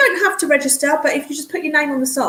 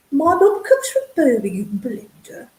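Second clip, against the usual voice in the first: whispered aside. Real, not acted. Confiding aside to viewer.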